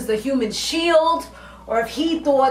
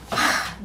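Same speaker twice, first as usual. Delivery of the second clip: heavy sigh; 3 dB quieter than usual. Acted. Reacting to retold wrong words.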